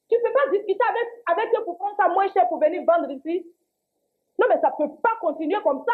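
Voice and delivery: exasperated complaint, pitch riding up; protestation indignée. Acted. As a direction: argue indignantly against the price rise. Dispute sur la hausse des prix. (protestation exaspérée)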